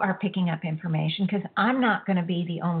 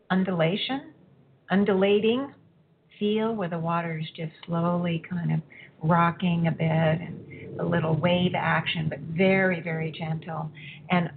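guided meditation. Acted.

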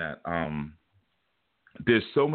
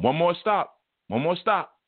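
conductor calling; 9 semitones higher, slower than usual. Retold or imitated. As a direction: call it out like a train conductor waking riders. Conductor voiced tapping sleepers.

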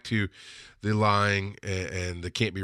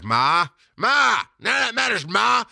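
high, whiny-loud protest to mom; mock wail at your mother; exasperated son; 11 semitones higher, 4 dB louder than usual. Son protesting to his devout mother, exasperated.

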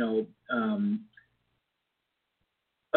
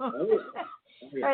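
high, bright-eyed oh yeah; light up as the memory comes back; delighted recognition; 13 semitones higher than usual. Real, not acted. Guest recalls Mary Poppins with a high delighted oh yeah.

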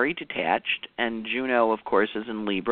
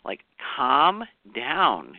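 slow calming; much slower than usual. Retold or imitated. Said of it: "And she's like".

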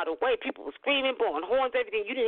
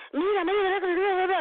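high, louder Spanish calls of a partying crowd; imitating street calls; 13 semitones higher, 3 dB louder, faster than usual. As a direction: mimic the neighbours calling out, high and loud. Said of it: "You hear".

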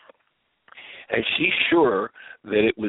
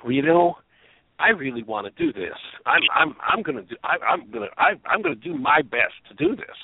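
hesitant promise; 6 semitones higher than usual. Retold or imitated. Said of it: "I can say".

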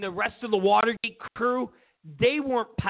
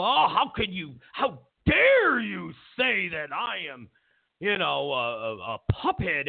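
mock outrage. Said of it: "he chastised all the Republicans".

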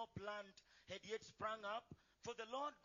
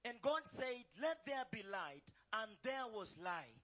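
booming biblical narration; 3 dB louder than usual. Acted. Congregation reads scripture aloud.

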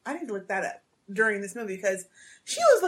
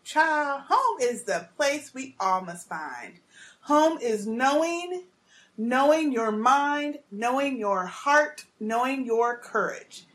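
warm; slower than usual. Retold or imitated. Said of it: "She's like".

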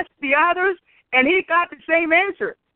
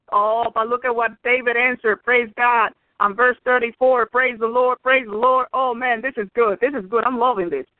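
delighted; 5 semitones lower than usual. Real, not acted. Preacher delights in the verse.

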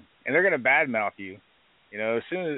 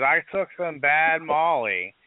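slow, higher, dazed mock confession; drugged employee; 5 semitones higher, slower than usual. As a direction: drag it out like someone who took bad pills. Boss imitates drugged employee.

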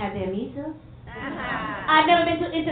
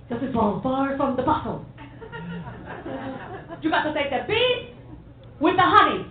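mom's advice; 5 semitones higher than usual. Retold or imitated. Comedian voicing her mom's advice, higher. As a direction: preach like mom with her sayings. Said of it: "this mom cliches, as she called them".

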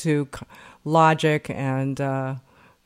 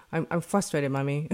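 put-on cute toddler voice; 5 dB quieter than usual. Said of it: "in his cute little way".

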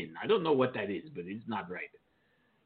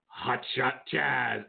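jazz-hands flourish; much slower than usual. Real, not acted. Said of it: "jazz hands when you say that".

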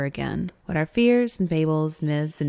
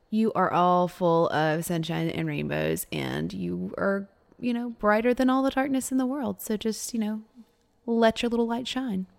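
soothing reassurance; 3 semitones higher than usual. Acted.

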